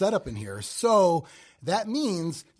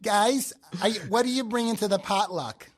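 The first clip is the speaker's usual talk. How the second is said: higher-pitched Midwestern potluck host; Midwestern accent; 4 semitones higher than usual. Acted. Asking guests about the potluck, hammed-up Midwestern. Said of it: "Your Midwestern is coming out".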